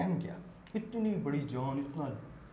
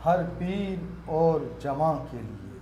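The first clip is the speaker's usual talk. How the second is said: measured poetic recital; naat recitation; 3 dB louder than usual. Acted. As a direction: let the line ring out gently. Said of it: "نعت کے چند شعر پیش کرنا چاہوں گا".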